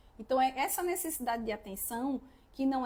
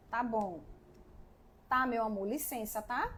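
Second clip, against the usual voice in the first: hushed, lower and gentle; soft motherly aside; 4 semitones lower, 4 dB quieter than usual. Retold or imitated. Mother asks her interrupting child for a moment, quietly and kindly. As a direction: ask the child to wait, very kindly.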